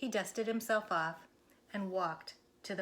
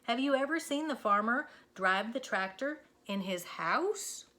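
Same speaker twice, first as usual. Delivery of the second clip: very slow, higher, drawn out; insistent Moo; 6 semitones higher, 4 dB louder than usual. Acted. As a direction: spell it out to a slow friend. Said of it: "said Moo".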